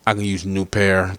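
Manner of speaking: politely rephrased request; polite correction. Shown as a demonstration. Correcting himself to Dre, with mock politeness. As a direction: ask again, humbly and nicely. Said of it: "I ain't mean to say it like that".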